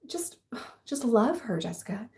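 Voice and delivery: whispered, patronizing calm-down voice; mock advice. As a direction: soothe her like a child, half-mocking. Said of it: "everyone was like".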